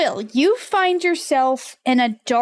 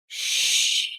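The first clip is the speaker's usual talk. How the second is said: a quick unvoiced shh; shushing whisper; 5 dB quieter than usual. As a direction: hush him without a sound. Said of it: "looks at you and goes".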